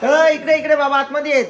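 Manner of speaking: high, bright sing-song calling. Real, not acted. Calling baby toward father.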